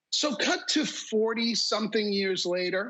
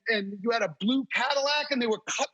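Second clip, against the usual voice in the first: fast, higher, laughing through the list; excited rush of details; 4 semitones higher than usual. Retold or imitated. Reliving the crash memory for his wife, fast and laughing. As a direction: tumble the facts out quickly, amazed.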